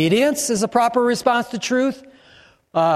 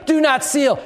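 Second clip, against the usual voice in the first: preached shout; 6 semitones higher than usual. Shown as a demonstration. Pastor repeating the verse to the church, shouted. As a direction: fire the command out at the room.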